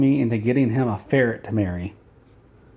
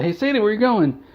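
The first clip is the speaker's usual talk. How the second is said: high, carrying call down a hallway; 10 semitones higher than usual. Retold or imitated. Owner chasing his cat down the hallway, calling out high. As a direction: call after the runaway cat, pitched up.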